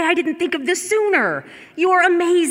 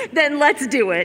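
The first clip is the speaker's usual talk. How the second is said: rousing call. Real, not acted. Carol announcing the handover to the team, a rousing call. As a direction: fire everyone up.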